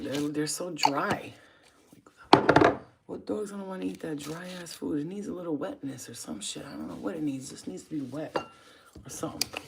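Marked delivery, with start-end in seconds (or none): 0.0-4.7 slow whisper. Real, not acted. Complaining about dog food.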